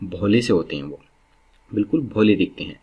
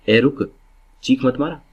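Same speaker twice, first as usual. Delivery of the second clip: mock parent snapping at noisy kids; a touch louder, parental rebuke; lightly acted parent scolding a noisy child; 4 semitones higher, 4 dB louder than usual. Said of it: "हम उनको डांटते हैं ना".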